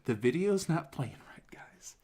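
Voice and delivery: half-whispered mock exasperation; imitated suppressed anger. Pissed presenter addressing the crowd, imitated hushed anger. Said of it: "so pissed".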